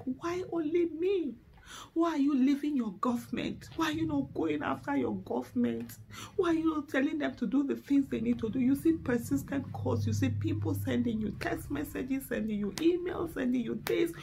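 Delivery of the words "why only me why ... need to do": exasperated. Retold or imitated. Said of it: "sometimes you're angry because you're like".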